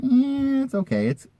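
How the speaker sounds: imitating the seller. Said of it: "He's like".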